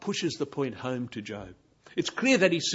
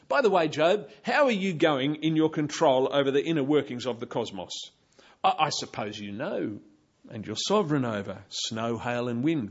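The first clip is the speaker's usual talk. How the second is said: sarcastic; 4 dB louder than usual. Pretend. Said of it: "rebuke and sarcasm".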